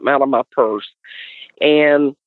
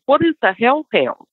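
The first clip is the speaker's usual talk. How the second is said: higher, incredulous ask; puzzled high question; 9 semitones higher than usual. Retold or imitated. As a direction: ask it bewildered. Asks what a hellhound is.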